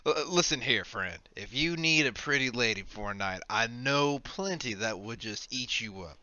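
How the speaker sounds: a hint of a confiding innkeeper; lightly voiced establishment owner. Offering a friend advice on company, lightly voiced owner. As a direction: lightly play the knowing proprietor. Game master plays tavern owner.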